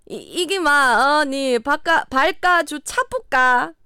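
hammed-up Gyeongsang dialect, last phrase stretched; 경상도 사투리. Shown as a demonstration. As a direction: have another halting go at Gyeongsang intonation. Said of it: "아, 이거 사투리 오늘 안 되네". (끝을 늘이는 어설픈 경상도 사투리)

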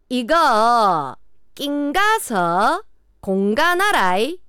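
very slow, exaggerated Gyeongsang dialect; 경상도 사투리. Shown as a demonstration. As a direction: announce a dialect test item, each chunk stretched in Gyeongsang intonation. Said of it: "경상도 방언 능력 검증 시험". (시험 듣기처럼 느리게 늘인 경상도 사투리)

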